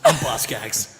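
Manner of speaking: a hint of sexy swagger in a low introduction; a singer's name. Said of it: "so much sexy swagger".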